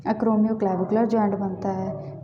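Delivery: acromioclavicular said slowly, syllable by syllable; slow repeat. Shown as a demonstration. Teacher repeats the bone term for students, slow and careful. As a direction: spell the term out slowly for the class. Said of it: "कोरैको acromioclavicular joint".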